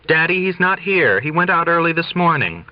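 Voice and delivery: bright cover story. Acted. Daughter covering on phone.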